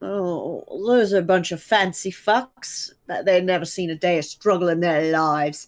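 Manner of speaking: grumbled, muttered under the breath. Voicing a character's aside to anyone listening: muttering under her breath. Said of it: "say under her breath".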